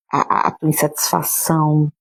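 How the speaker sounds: a real sob breaks into the words; voice breaking. Real, not acted. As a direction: let the tears catch the phrase. Preaching about her sorrows. (com a voz embargada de choro)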